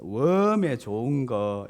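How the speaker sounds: low, stretched Jeolla exclamation; imitated Jeolla marvelling; Jeolla dialect. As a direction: draw it out in put-on Jeolla dialect. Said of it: "전라도 버전이더라고요".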